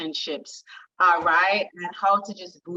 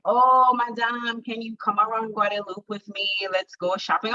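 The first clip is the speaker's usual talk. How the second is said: put-on French English accent; 3 semitones higher than usual. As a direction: coax with a hint of a French accent. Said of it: "in her little French English accent".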